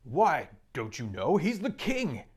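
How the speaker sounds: put-on a beaver telling children about the king; Mister Beaver. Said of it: "said Mister Beaver".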